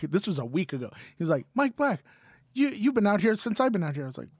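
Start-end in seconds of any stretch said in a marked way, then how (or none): 1.6-4.0 put-on higher, insistent "Mike Black" like an old friend; a lightly voiced chatty old-timer; imitating the guy who remembers everyone; mock Holtzman.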